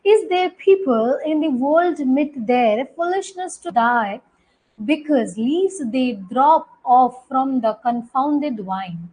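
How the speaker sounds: slow American accent reading; teacher demonstrating an American accent, slowly. Shown as a demonstration. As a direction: read it out with a light American accent. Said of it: "ये American accent है".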